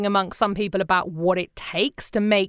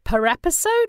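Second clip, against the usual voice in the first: mock disbelief; 7 semitones higher than usual. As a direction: stammer it out in pretend shock. Retold shock at tiny budget.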